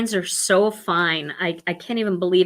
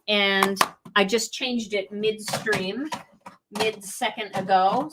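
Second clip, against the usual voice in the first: far from mic; slower than usual. Real, not acted. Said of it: "I know I sound far away".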